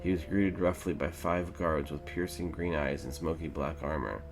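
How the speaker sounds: measured fantasy storybook narration; story narration. A narrator's reading. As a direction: read it out like an epic legend.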